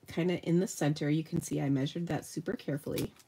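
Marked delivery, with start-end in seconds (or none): 1.1-3.1 sarcastic. Real, not acted. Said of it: "I hope you can hear the sarcasm".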